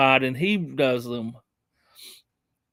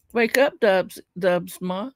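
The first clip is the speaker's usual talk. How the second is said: put-on gently waking a child; 4 semitones higher, slower than usual. Waking Dubs up, mock parent.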